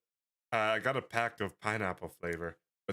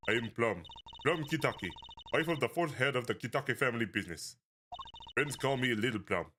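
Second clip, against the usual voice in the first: put-on lightly Russian-accented lady; a hint of a Russian mob wife. A mob wife greeting strangers at her gate, light Russian accent. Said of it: "like, a Russian voice".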